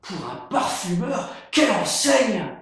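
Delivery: admiring. Acted. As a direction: gush with admiration.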